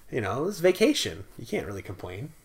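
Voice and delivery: normal talking voice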